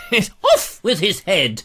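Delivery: laughing through the words. Real, not acted. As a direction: chuckle as you say it. Laughing while reading comment.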